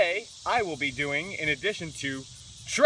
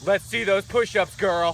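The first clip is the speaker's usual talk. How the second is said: loud challenge; 5 dB louder than usual. Acted.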